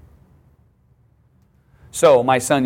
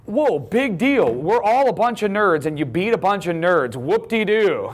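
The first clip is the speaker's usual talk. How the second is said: retold yell; 8 semitones higher than usual. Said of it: "I finally yelled at him".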